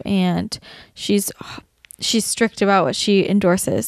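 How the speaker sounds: whispering. Real, not acted. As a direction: whisper it like a secret. Soft aside about blogger.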